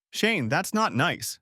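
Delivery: high, drawn-out pout; slow, sulky chiding with a pout. A narrator's reading. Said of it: "she said, pouting".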